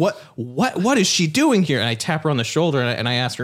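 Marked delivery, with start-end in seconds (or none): 0.0-1.8 rising, higher-pitched confused stammer; acted bewilderment. Waking beside an unknown woman, mock bewildered. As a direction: play startled, stumbling into the question. Acts finding stranger in bed.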